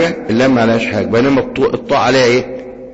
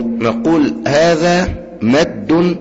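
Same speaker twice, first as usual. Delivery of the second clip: هذا مد said slow with high rise on هذا; drawn out term; 6 semitones higher, much slower than usual. Shown as a demonstration. Teacher naming the elongation rule. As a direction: stretch the phrase as if elongating. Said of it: "عندما نتوقف مثلًا".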